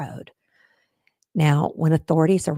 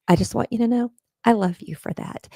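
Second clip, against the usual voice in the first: tender whisper; 5 semitones higher, faster than usual. Real, not acted. Sincere aside to friend Sam.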